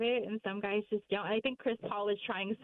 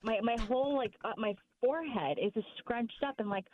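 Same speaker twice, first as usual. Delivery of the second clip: shocked disbelief; 3 semitones higher than usual. Retold or imitated. Retelling her shocked reaction.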